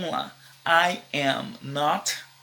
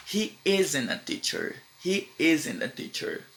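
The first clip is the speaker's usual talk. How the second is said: slow contraction demo; slower than usual. Shown as a demonstration. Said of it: "o outro contraction".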